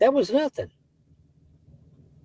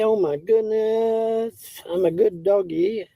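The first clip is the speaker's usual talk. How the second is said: cartoon dog; 4 semitones higher, slower than usual. Voicing the dog for the dog.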